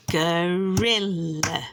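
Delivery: gorilla stretched slowly into go-ri-lla; syllable by syllable. Shown as a demonstration. Showing three syllables to a child, syllable by syllable. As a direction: draw gorilla out in three slow beats. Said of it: "Three syllables".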